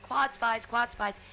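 hollering for the radio guy across the crowd; retold screaming. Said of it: "And I'm screaming".

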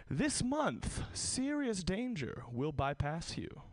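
high start, then slow solemn pronouncement; fortune reading. Retold or imitated. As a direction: read it out like a prophecy. Fortune cookie read out.

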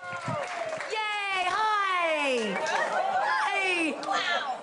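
high, bright squeal of hello; excited greeting. Real, not acted. Greeting her camera audience with a high excited squeal.

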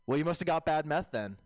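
lightly voiced train rider; guy on the train. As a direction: do a hint of a stranger on the train. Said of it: "my impression of a guy I heard on the bart".

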